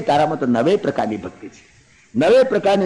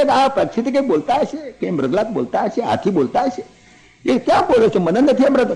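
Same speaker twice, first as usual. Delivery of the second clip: higher, puzzled younger brother; lightly voiced Lakshman; 6 semitones higher than usual. Lakshman questions grieving Rama, lightly raised puzzled voice. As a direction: ask it like a worried brother. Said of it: "લખનલાલજી કે".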